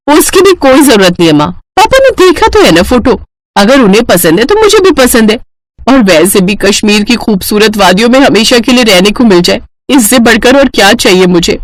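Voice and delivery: lightly voiced keen daughter; eager daughter Aditi. Daughter dreams of living in beautiful Kashmir, eager. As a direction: brush off mother's caution eagerly.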